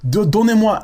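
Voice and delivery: high-pitched French plea, mock begging; lightly mocked French-speaking child beggar; begging kid in French. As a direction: imitate a kid pestering in French. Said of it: "talking in French".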